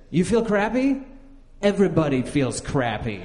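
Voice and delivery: scoffing high "You feel crappy?" then dismissive; gruff doctor. Retold or imitated. Doctor scoffing at a patient with a cold, dismissive. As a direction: brush off the patient like a fed-up doctor. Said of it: "He said".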